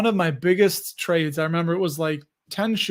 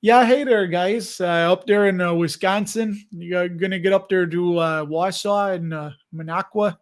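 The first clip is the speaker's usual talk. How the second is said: amateur attempt at a Wisconsin accent; light mock Upper Midwest Wisconsin accent. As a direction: put on a folksy Wisconsin accent. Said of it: "Wisconsinite accent real well".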